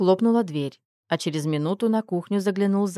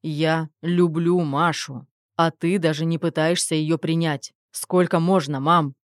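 reproachful; 3 dB louder than usual. Acted. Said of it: "с укором произнёс".

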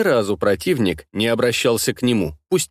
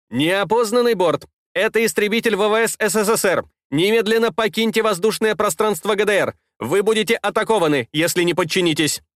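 voice in headphones; 6 semitones higher than usual. Acted. Услышал голос в наушниках.

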